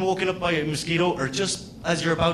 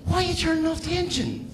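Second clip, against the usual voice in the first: mock panic; 11 semitones higher than usual. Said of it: "You're like".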